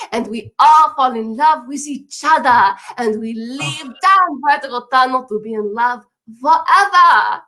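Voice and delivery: mock French accent. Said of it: "My accent is ambiguous".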